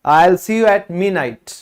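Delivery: slow, careful example line; slow example sentence. Shown as a demonstration. Teacher slowly reading an English example sentence. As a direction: read it slowly so they catch midnight. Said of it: "तो यहां पर आप क्या कहोगे".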